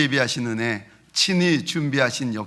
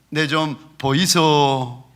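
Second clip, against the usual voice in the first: Gyeongsang dialect; slower than usual. Retold or imitated. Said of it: "경상도 말로는".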